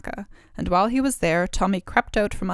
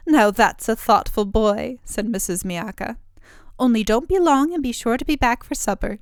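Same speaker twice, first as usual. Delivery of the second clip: lightly voiced ogre's wife; 3 semitones higher, 5 dB louder than usual. Ogre's wife speaks to Tommy.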